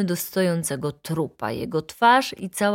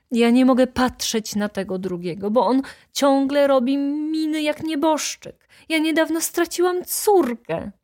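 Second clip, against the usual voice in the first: in tears; 7 semitones higher than usual. A narrator's reading. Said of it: "zakończyła ze łzami".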